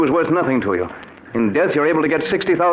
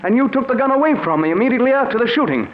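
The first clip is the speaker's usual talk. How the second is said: rising suspicion; 5 semitones higher, faster than usual. Acted. Philip realises he was tricked.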